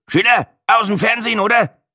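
put-on high-pitched Franconian old-timer; grunted Franconian. A narrator's reading. Old Franconian pensioner recognising a TV presenter, grunting in Franconian. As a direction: grunt the question in Franconian dialect. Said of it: "grunzte ein offenbar fränkisches".

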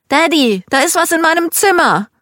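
put-on scared child. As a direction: daughter running to her dad, frightened. Scared child fetches her dad.

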